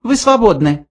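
high little voice, cool dismissal; cold mouse. A narrator's reading. Mouse dismisses the old man, cold high voice. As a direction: dismiss him coldly, pitched high. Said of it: "холодно отрезал Бенджи".

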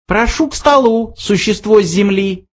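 high, small mouse voice; thin little voice. A narrator's reading. Mouse invites Arthur to the table, thin high voice. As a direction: squeak it out like a tiny host. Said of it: "раздался тонкий голосок".

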